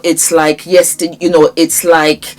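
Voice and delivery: mock rambling, stumbling over fillers; filler-laden speech. Shown as a demonstration. Coach showing what is not English, filler-laden rambling. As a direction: loop on the fillers without finishing the thought. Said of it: "That is not English".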